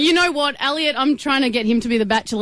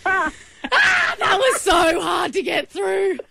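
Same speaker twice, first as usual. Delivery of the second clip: relieved exclaim; 10 semitones higher than usual. Real, not acted. Relief after holding prank voice.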